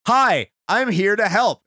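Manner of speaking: lightly voiced helpful genie, drawn out; Taj. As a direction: imitate a genie's greeting, slowly. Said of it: "and he says".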